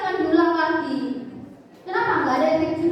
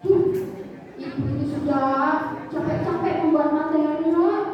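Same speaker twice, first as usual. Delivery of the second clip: dramatic guilt trip. Retold or imitated. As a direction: lay on the disappointment thick. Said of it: "dibuat sedramatis mungkin sehingga anak-anak itu merasa bersalah". (nada sedih yang didramatisir)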